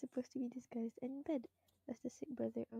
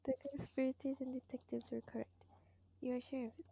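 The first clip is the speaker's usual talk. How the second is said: whispered narration. Acted. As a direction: read the mystery text under the breath. Narrates game text in whisper.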